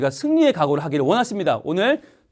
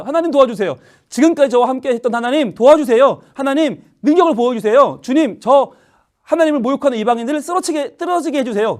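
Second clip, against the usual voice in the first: put-on higher, pleading child's prayer; earnest prayer; 6 semitones higher, 3 dB louder than usual. Young David praying at the stream, higher and pleading. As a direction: plead with God for help.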